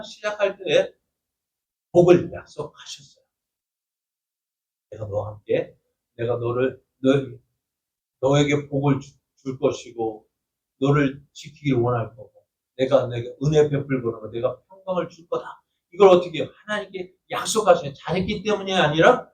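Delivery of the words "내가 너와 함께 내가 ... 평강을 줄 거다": a gently voiced God comforting his people; tender divine promise. God's promise quoted to Israel. (낮고 부드럽게 약속하는 하나님)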